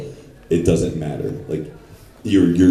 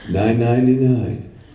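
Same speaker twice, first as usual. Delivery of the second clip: high, hammy take; 6 semitones higher than usual. Shown as a demonstration. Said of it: "five different takes of nine ninety-nine".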